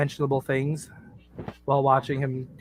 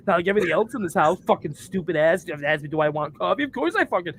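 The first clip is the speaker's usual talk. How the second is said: higher, fake angry rant; mock rant; 4 semitones higher than usual. Pretend rant at his wife about coffee, mock anger. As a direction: ham up the outrage at the coffee. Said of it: "I'm getting loud like it's an actual argument".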